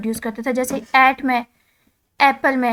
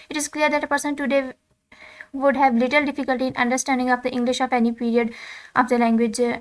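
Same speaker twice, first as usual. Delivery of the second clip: reading English text aloud, slow and deliberate; slow textbook reading; much slower than usual. Acted. Teacher reading the textbook to students, slow dictation. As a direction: dictate each word slowly to the class.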